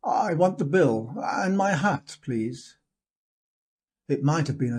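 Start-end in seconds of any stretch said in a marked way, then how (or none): 0.0-2.8 a firmer, louder demand; louder note. Acted. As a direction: raise the voice, insist politely. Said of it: "on a rather louder note".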